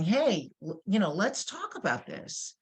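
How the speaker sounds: lively, upbeat invitation; energetic. Shown as a demonstration. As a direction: bring energy to the offer to talk. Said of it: "having energy that's saying".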